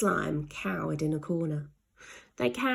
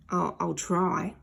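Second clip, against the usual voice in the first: slow, stammering nervous voice; hesitant Slime. Acted. Slime unsure about growling, slow and timid. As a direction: falter it out.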